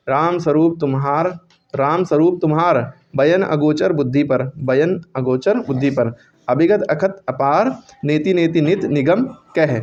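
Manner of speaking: slow, measured verse recital; poem recitation. Acted. Teacher reciting a soratha to students, slow and measured. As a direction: chant the lines steadily for the class to learn.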